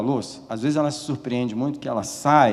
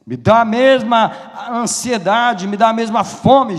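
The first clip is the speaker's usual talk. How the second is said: high, loud, urgent pulpit cry; preaching at full force; 9 semitones higher, 7 dB louder than usual. Real, not acted. Preacher calling church to close eyes and pray, fervent shouting. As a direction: preach it loud, pleading with the congregation.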